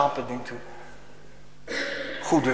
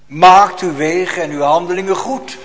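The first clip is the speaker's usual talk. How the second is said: proclaimed text; 3 semitones higher, 6 dB louder than usual. Shown as a demonstration. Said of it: "repeated text call".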